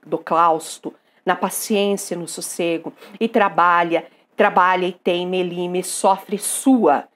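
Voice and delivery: restrained sonnet reading, evenly measured; poem recitation. Acted. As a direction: recite the verse with understated delivery. Reads Parnassian sonnet aloud. (recitação contida de soneto)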